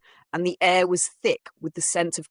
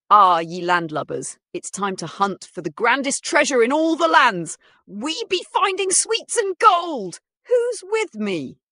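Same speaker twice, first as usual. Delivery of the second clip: pirate voice; 8 semitones higher, 6 dB louder than usual. Acted. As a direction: roll it out like an old pirate. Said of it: "getting into character".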